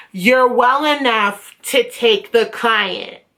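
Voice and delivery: slow, drawn-out mock lecture; condescending refusal. Front desk girl refusing a student, slowly condescending. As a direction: imitate a front desk girl laying down the rule.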